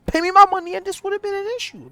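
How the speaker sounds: hammed-up cry of pay me my money; mock outraged demand. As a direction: friend imitating the scammed creator demanding his money. Requiem voiced demanding his pay.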